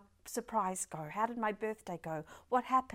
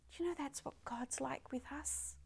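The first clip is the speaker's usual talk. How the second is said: hushed, breathy whisper to the congregation; 11 dB quieter than usual. Real, not acted. Preacher whispering about God's grace to the congregation. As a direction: lean in and whisper it.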